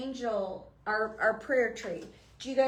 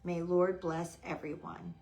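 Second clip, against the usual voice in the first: prayer reading; 3 semitones lower than usual. Real, not acted. Reads a prayer tag aloud.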